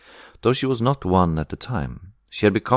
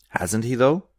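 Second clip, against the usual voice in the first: sharp, higher-pitched rising comeback; angry retort; 7 semitones higher, slower than usual. A narrator's reading. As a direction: throw the question back angrily. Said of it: "the other retorted angrily".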